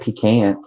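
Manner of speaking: pecan echoed as pee-CAN; puzzled echo of pronunciation. Retold or imitated. Southerner echoing an odd word, pecan as pee-CAN. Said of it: "I'm like".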